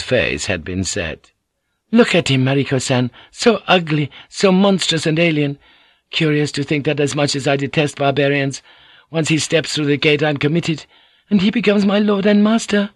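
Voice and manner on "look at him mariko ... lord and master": higher, scornful proud wife; disdainful. Acted. Fujiko scorns the plan, higher disdainful voice. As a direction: sneer it out with contempt.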